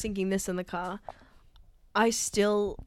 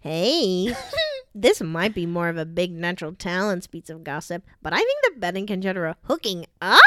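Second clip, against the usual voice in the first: hammed-up comic reading voice; playful character read with exaggerated swoops; funny voice; 5 semitones lower than usual. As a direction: read it out in a silly put-on voice. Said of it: "or just a funny voice".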